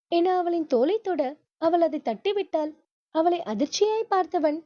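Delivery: plain reading voice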